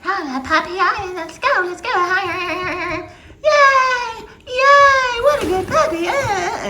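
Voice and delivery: shrieking high mock "yay, good puppy"; mocking over-excited trainer. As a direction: ham up a silly overexcited trainer. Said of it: "trainers that act so foolishly".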